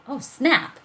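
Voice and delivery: high, loud exclamation; excited shout. A narrator's reading. Evan realizing the fireworks began, shouting. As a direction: blurt it out in a thrilled yell. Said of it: "shouted Evan".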